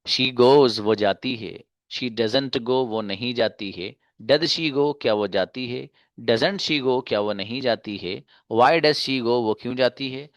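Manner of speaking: deliberate singsong conjugation recitation; teacher modelling a pattern phrase by phrase; measured drill reading. Shown as a demonstration. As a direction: say each English phrase, then its translation, evenly. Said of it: "इस अंदाज से आप conjugation पढ़ सकते हैं".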